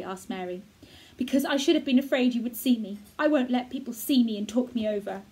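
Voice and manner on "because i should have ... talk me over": a hint of a sickly, proud boy, louder; a hidden invalid boy explaining himself; lightly voiced boy. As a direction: give the boy a touch of stubborn defiance. Colin voiced by reader.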